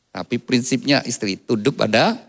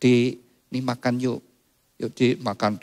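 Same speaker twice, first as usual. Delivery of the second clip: lemah lembut. Retold or imitated. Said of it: "lemah lembut, lemah lembut, pelan-pelan".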